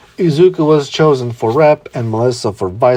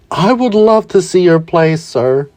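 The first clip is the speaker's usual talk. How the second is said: fanboying; 6 semitones higher than usual. Acted.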